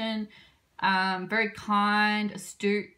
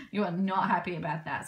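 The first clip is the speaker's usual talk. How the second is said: usual speaking voice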